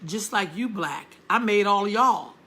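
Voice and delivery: slow, deliberate, loving put-down; unhurried knowing reassurance; slow proud warmth. Retold or imitated. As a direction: tell her gently but with pride. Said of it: "I said".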